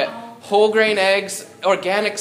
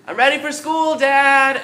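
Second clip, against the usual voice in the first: put-on little baby bear; 8 semitones higher, 6 dB louder than usual. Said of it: "and he's like".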